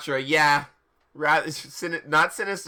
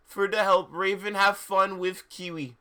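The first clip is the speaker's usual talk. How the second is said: mock author voice; 4 semitones higher, 5 dB louder than usual. Author's note continues.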